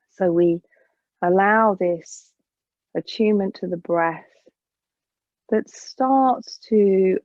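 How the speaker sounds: calm, measured yoga teacher guidance; guided breath meditation. Acted. Yoga teacher settling an evening class into breath awareness, calm guided meditation. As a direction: guide the class into their breathing, with long pauses.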